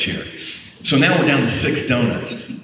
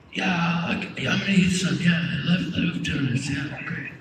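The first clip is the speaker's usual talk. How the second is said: unconvincing; 7 dB quieter than usual. Retold or imitated. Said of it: "He's like".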